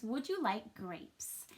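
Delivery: slow whispered read-aloud. Shown as a demonstration. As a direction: whisper the sentence slowly to the class. Teacher rereads first sentence.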